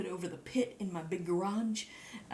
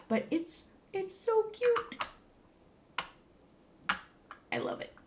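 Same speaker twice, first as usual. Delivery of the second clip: cutesy high voice. Real, not acted.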